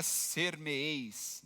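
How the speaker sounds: imitating "ser-me-eis" said low and drawn out; mock struggle to get "ser-me-eis" out syllable by syllable; labored reading. Preacher imitates a girl reading old Bible words, "ser-me-eis" laboriously sounded out. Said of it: "as palavras não saíam pra ela".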